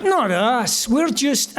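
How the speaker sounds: lightly imitated Scottish brogue, modest; a hint of a Scottish accent, self-deprecating. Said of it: "really thick Scottish accents".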